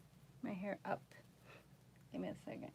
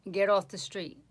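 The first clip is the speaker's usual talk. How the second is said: "Get off the street" punched louder in a New York accent; 5 dB louder than usual. Shown as a demonstration. For a viewer's request, louder tough New York accent. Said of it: "you want me to say that".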